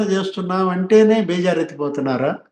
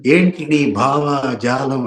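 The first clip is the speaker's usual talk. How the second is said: slow sneering quote of a taunt; mock sarcasm; 3 semitones lower, much slower than usual. Retelling Ambati's sarcastic taunt at Pawan, slow and mocking. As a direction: drag out ఏంటి with mock scorn. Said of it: "అక్కడ కూడా వెటకారమే, వ్యంగ్యమే".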